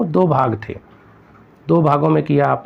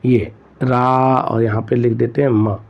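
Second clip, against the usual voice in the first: slow spelled out; 2 semitones lower than usual. Shown as a demonstration. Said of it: "तो आपको".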